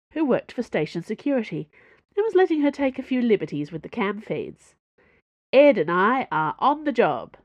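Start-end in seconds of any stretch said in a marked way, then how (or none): 5.5-7.4 smooth and assured; easy, confident delivery. Acted. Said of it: "said Porthos smoothly".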